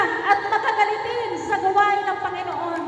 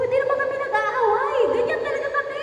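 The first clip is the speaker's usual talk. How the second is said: higher-pitched mock defensive retort; retold protest; 5 semitones higher than usual. Wife denies quarrelling to her husband, higher-pitched retold protest. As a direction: protest it in a raised pitch, retelling.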